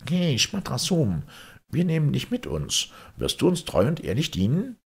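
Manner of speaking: high-pitched merchant calling out to an unseen servant. Acted. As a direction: call into thin air, voice pitched high, then ask quickly. Merchants address the invisible servant.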